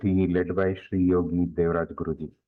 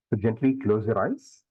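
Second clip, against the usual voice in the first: guided meditation. Real, not acted. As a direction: lead them gradually into stillness, leaving long silences.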